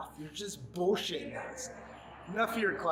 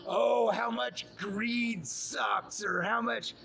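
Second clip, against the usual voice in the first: mocking quote; 5 semitones higher, much slower than usual. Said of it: "Talking about".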